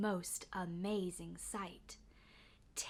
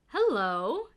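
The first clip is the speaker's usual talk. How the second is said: friendly call; 2 semitones higher, 7 dB louder than usual. A narrator's reading. Watchman finds the bear.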